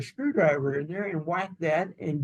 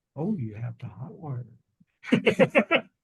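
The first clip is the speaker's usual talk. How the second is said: mock dry, utterly serious, deadpan, low voice; 4 semitones lower than usual. Quoting his wife answering the car salesman: retelling a deadpan, serious reply. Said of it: "in the most deadpan, serious manner".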